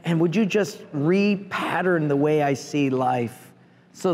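hushed earnest prayer, softly pleading; quiet prayer. Retold or imitated. Preacher voicing his own prayer, soft and humble. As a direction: talk to God like a humble request. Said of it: "I'd say".

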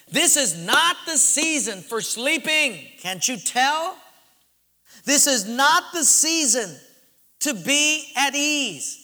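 disciples scolding Jesus to wake up; pleading complaint. Acted. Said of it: "as if they were saying".

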